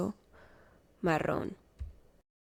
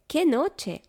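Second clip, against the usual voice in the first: grumbling mole; 6 semitones higher than usual. A narrator's reading. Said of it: "rezonga topo".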